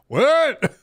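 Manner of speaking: high, loud startled "what"; sudden disbelief at the clip; surprised. Real, not acted. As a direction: blurt it out in shock. Reacting to the clip.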